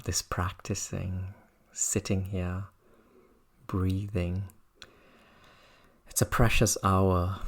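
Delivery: measured teaching with reflective pauses; guided meditation. Real, not acted. Teacher reminding students why they practice, calm meditation voice. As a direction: invite listeners to reflect, unhurriedly.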